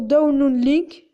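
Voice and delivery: French-accented attempt at English; slow English words in a French accent. Real, not acted. Tutorial host showing viewers which link to click, attempted English accent. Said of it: "vous avez kiffé mon accent anglais".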